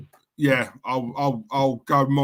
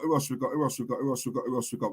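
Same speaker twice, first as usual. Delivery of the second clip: trailing off; 6 dB quieter, much faster than usual. Real, not acted. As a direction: mumble it away to nothing while scrolling. Host muses while scrolling chat.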